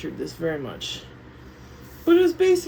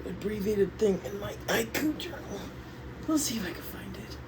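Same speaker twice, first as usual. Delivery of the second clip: whisper; 5 dB quieter than usual. Real, not acted. Muttering while searching journals.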